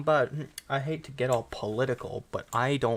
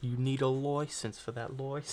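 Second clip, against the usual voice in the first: mock British official; British busybody demanding paperwork; British accent. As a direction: put on British for the joke. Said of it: "British people be like".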